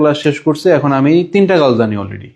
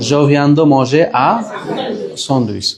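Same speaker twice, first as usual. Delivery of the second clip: teacher pace, dropping away at the end; slow model sentence; much slower than usual. Shown as a demonstration. Teacher modelling a sandwich sentence for students, slow. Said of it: "কিভাবে practice করতে হবে".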